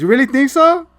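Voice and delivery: high, loud, flattered squeal; girlish swoon. Retold or imitated. Girl answers Hawkeye's compliment, high flattered squeal. Girl voiced in retold scene.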